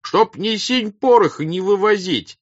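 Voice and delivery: loud, very high peasant harangue; high, forceful crowd shout. A narrator's reading. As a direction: yell it out like orders thrown back in reproach. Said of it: "кричал другой".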